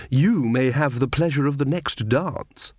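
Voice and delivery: slow, languorous coquette; flirtatious lady. Acted. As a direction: bestow a favour on an admirer. Magrat flirts with the captain.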